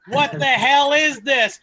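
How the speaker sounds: host riffing on the line-up, hamming up mock outrage. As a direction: punch it up, indignant and loud. Escalating mock outrage bit.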